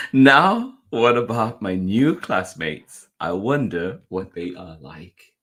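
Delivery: slow storybook question after a loud "Now"; gentler wondering. A narrator's reading. Reader repeating the classmates question to children, musing wonder.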